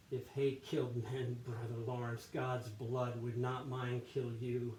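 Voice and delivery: hateful monk grumbling to himself; acted-out soliloquy. Monk wishing Brother Lawrence dead, acted grumbling. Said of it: "try to act this out".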